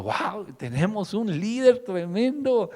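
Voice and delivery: high, slow, impressed crowd voice; preacher voicing the crowd's amazement at David; amazed crowd. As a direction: gush like an awed crowd. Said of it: "Y ese público".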